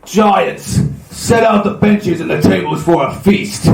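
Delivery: slow, measured giant's proclamation; lightly voiced giant king. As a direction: announce a feast slowly, like a giant host.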